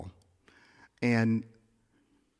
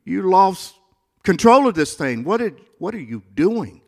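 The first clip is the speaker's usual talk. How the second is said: retold plea; 6 semitones higher, 5 dB louder than usual. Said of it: "And I'm saying".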